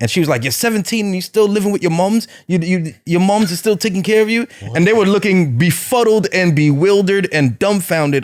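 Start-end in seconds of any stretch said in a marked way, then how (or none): 0.4-4.5 clumsy, bad put-on English accent. Quoting a British woman from a video clip, in a bad English accent. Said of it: "don't mess up my English accent".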